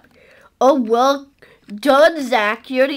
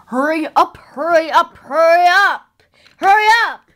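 impatient; 3 semitones higher than usual. Pretend. Impatient driver, building urgency.

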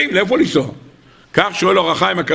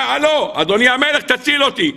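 high-pitched mock call for rescue; retold cry for help; 5 semitones higher than usual. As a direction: act out a princess calling the king, without real shouting. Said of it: "היא צעקה". (קריאת הצלה מעושה, בקול גבוה)

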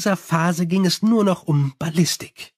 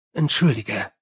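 lower, curt Entschuldige; Angua, gruff; 5 semitones lower than usual. Acted. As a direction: bite off Entschuldige low like a werewolf. Angua the werewolf speaks.

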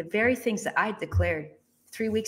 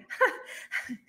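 airy unvoiced giggle of disbelief; soft stunned laugh; breathless laugh; 10 semitones higher, 6 dB quieter than usual. Real, not acted. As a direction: laugh out of sheer amazement.

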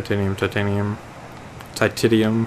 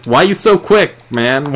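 much higher, louder, frustrated why are you so quick; exasperated cry; 7 semitones higher, 6 dB louder than usual. Real, not acted. Gamer chasing a fast fish, high exasperated cry. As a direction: whine at the fish that keeps escaping.

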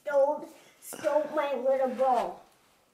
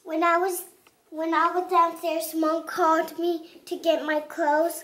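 light Jamaican accent. Real, not acted. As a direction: tell it with a light Jamaican lilt. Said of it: "'Cause I heard an accent".

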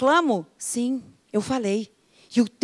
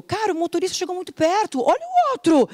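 higher, fast irritated complaint; mock driver grumble; 7 semitones higher than usual. Husband griping about a driver, higher and fast. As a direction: gripe at the other drivers.

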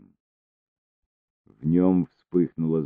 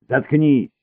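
high, loud snap; angry snap; 9 semitones higher, 7 dB louder than usual. A narrator's reading. Cesare snaps angrily at Luk, loud. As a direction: cut her off hard. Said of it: "огрызнулся он сердито".

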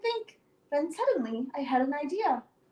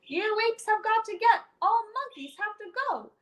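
raised, higher angry shout at the apes; 4 semitones higher than usual. Acted. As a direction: yell them out of the yard. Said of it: "I heard myself shout".

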